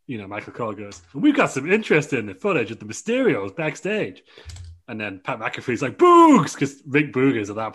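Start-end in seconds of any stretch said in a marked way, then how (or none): 1.1-4.2 lightly voiced TV commentator, pitched up. Michael Cole to viewers about backstage footage, commentator announcing. 6.0-6.5 very high, loud commentator cry; excited shout. Acted. Pat McAfee greeting Rick Boogs, excited shout.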